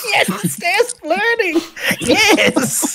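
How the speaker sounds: high-pitched, laughing put-on voice.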